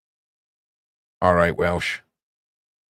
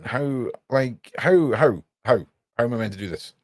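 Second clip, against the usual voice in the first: exasperated disbelief; 6 semitones higher than usual. Real, not acted. Baffled by the dragon design.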